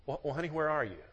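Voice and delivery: soft, caring question; gentle husband. Retold or imitated. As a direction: ask gently, just checking on her. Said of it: "And you say".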